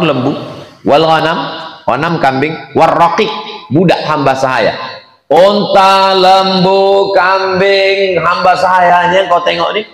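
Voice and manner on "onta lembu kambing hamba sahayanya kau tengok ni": excited listing. Retold or imitated. Employer shows the grown herd.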